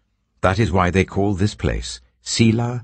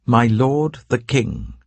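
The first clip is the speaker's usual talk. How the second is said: raised pitch, slow, drawn-out call across a distance; 8 semitones higher, slower than usual. A narrator's reading. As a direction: call after the king respectfully from behind. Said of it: "called out to Saul".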